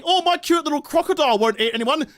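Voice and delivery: lightly imitated doting owner; mock doting owner. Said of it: "That's like saying".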